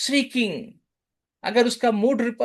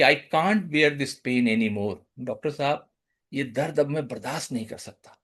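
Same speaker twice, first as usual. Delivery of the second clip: softer, a touch of pained pleading; pleading patient; 5 semitones lower, 3 dB quieter than usual. Retold or imitated. Patient telling the doctor his pain is unbearable, softly pleading. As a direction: quietly beg the doctor to stop the pain. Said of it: "he is emphasizing about his condition".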